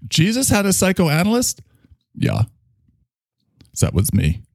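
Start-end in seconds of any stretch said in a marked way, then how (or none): 3.8-4.4 put-on a drunk German doctor praising his schnapps; heavy German accent, tipsy. Character continues.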